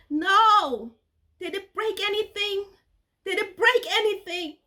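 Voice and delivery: high, frantic panic, rising to a shout; panicked cry. Retold or imitated. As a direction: blurt it out in terrified alarm. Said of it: "And in a panic".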